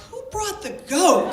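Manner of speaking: loud, high, laughing question; laughing disbelief. Retold or imitated. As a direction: ask it through laughter, stunned. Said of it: "we're all looking around at each other like".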